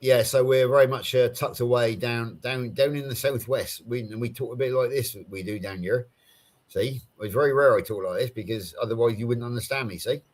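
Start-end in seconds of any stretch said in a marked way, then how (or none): 3.9-10.2 a mild West Country burr, Somerset style; a touch of rural Somerset accent. Shown as a demonstration. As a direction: slip lightly into the southwest English accent. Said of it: "that's the accent that we have down here".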